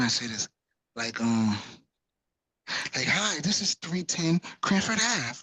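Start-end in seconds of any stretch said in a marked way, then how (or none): 3.1-5.4 polished realtor voice. Retold or imitated. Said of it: "you have to be this type of person".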